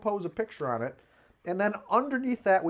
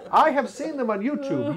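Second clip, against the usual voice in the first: laughing; 8 semitones higher, 5 dB louder than usual. Real, not acted. Teasing the subtitle editor.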